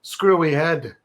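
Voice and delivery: a hint of New York bro reading; New York accent. Reading Nick's email in a mild New York accent. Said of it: "wanna do a New York accent".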